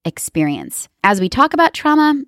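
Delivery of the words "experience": "experience" dropped low and set apart; low, deliberate stress on "experience", falling at the end; emphasis on experience. Real, not acted. Therapist singling out the key word, emphatic low "experience". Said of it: "I emphasize that word".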